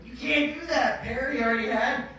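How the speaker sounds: high-pitched mock protest; imitating alarmed director. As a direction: imitate someone rushing in to object. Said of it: "Adam came running out and he goes".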